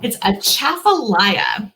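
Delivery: Atchafalaya drawn out slowly with a marked emphasis; slow teaching demo of Atchafalaya; stress inside Atchafalaya. Shown as a demonstration. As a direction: stretch Atchafalaya to show where the emphasis goes. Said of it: "the emphasis on goes in the word".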